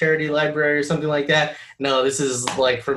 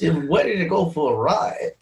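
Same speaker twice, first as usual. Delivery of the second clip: badly faked celebrity impression; terrible Christopher Walken; 3 semitones higher than usual. Co-host trying Walken on passengers, terrible impression. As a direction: have a clumsy go at a Walken voice. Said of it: "that was terrible. That was the worst".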